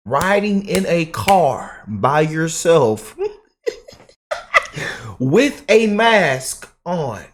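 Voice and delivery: high, slow, hammed-up mockery; mocking voice. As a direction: drag it out with a laugh, making fun. Mocking lone masked drivers.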